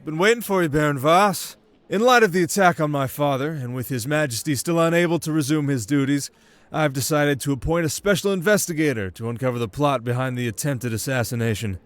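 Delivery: a commanding prince announcing a decision; prince's voice. Acted.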